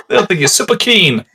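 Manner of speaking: playing along with a hint of vintage ad; old-timey voice. Joining friend's soda pitch, light old-timey voice. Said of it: "It's all like old-timey Jim".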